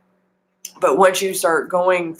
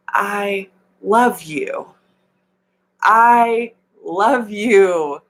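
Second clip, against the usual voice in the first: tender self-affirmation; 3 semitones higher, much slower than usual. Shown as a demonstration. Spiritual coach leading viewers in self-love, slow and tender. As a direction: say it slowly to yourself, meaning it. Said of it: "Put your hand on your heart and say".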